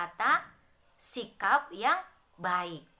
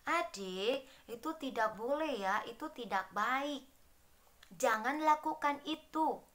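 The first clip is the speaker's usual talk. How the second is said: soft, kind telling-off of a little sibling; gentle correction; 2 semitones higher, 3 dB quieter than usual. Shown as a demonstration. Older sibling gently tells little brother it is wrong, softer. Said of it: "Kasih tahu adiknya".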